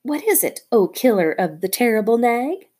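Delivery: high chirpy bird voice, bragging; a tailorbird crowing over the dead snake; excited little bird. Acted. Darzee the bird talking.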